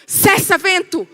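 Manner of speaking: hammed-up fed-up rebuke; angry command. Woken Jesus rebuking wind and sea, angry. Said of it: "foi pro templo virar as mesas".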